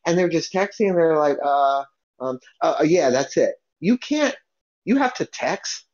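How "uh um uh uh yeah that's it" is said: halting, with filler sounds; imitated distracted hesitation. Texting customer answers the cashier, distracted and hesitant. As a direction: stall absently, as if busy texting.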